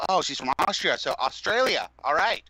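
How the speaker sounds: mock dim friend. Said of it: "she was like".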